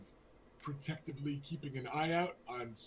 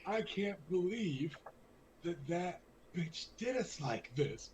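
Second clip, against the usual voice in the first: slow, slurred tipsy voice; slurring drunk; 3 semitones higher than usual. Acted. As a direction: slur it like she's had too much wine. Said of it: "she's slurring a bit".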